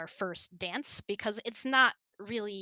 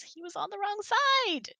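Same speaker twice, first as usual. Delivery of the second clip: pitched high and louder, fed up; exasperated exclamation; 13 semitones higher, 5 dB louder than usual. Real, not acted. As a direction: throw up your hands at the videographer. Complaining about videographer's placement.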